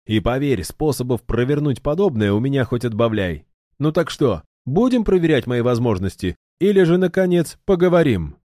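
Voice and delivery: pressing a cold foe for answers; threatening hero. A narrator's reading. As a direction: push him, brash and fed up. Ildar threatens the guard.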